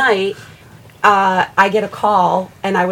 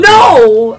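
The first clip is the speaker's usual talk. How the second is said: sheepish mock no; 5 semitones higher, 14 dB louder than usual. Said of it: "He's like".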